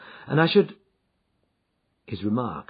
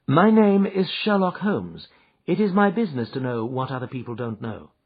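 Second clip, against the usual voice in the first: Holmes, calm and assured; 4 semitones higher, 5 dB louder than usual. Acted. Holmes introduces himself.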